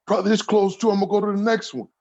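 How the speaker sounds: high put-on voice of a friend on the phone; imitating Bashir.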